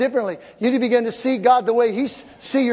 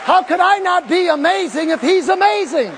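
triumphant reply; 7 semitones higher than usual. Retold or imitated. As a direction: crow it proudly to the nurse. Retold triumphant reply to nurse.

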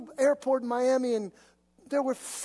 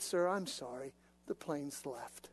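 calm and collected; 7 semitones lower, 9 dB quieter than usual. Retold or imitated. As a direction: calmly brush off the angry man. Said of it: "calm and collected".

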